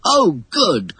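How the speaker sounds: pleased and eager; excited. A narrator's reading. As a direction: pipe up in mild excitement. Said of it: "cried John excitedly".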